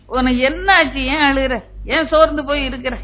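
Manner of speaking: urgent, high-pitched asking that builds; insistent concerned questioning. Acted. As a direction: press harder with each question. God's questions acted, pitch climbing.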